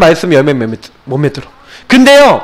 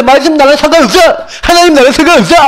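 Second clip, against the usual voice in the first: a bit higher, imitating someone shrugging it off; mock a kid who couldn't care less; dismissive brush-off; 4 semitones higher, faster than usual. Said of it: "이거라니까?". (시큰둥하게 흉내 낸 말투)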